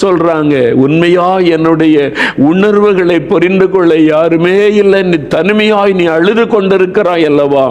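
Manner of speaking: building from measured to high, anguished fervour; impassioned lament. Acted. Preacher voicing the lonely weeper's grievance, impassioned. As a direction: let the complaint climb in pitch as it builds.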